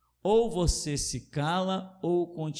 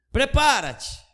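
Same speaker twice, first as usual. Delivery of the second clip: forceful repeat; 10 semitones higher, 4 dB louder, slower than usual. Acted. Repeated louder.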